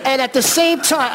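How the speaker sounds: high pitched laughing words. Real, not acted. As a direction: laugh while you say it. Laughing while joking.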